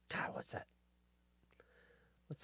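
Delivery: unvoiced frustrated whisper. Real, not acted. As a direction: whisper to yourself, trying to remember. Muttering, trying to recall.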